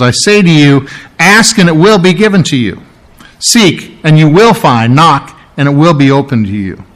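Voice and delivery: each will pressed firm; emphatic quote. Shown as a demonstration. Preacher reading the promise to the congregation, emphatic. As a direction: lean hard into every will. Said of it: "this very emphatic".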